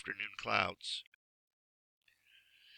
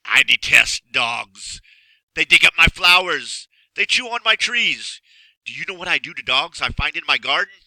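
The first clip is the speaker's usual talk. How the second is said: growling; 5 semitones higher, 11 dB louder than usual. Acted. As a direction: growl it out, building in rage. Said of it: "in a voice that was more like a growl".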